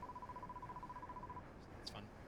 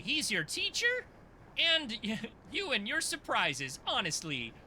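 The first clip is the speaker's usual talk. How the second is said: put-on perky fairy girl; slower than usual. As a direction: squeak it out like a startled little fairy.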